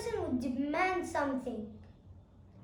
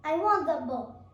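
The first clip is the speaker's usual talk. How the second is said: louder, pushy demand; aggressive demand; 5 dB louder than usual. Shown as a demonstration. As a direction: grab it with your voice. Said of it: "it's like this".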